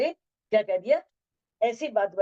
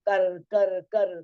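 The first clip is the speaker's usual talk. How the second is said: punchy, louder repeated command; insistent repetition; 2 semitones lower, 5 dB louder, much slower than usual. Acted. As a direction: nag with the same order, each word hit. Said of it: "तो बार बार कहो".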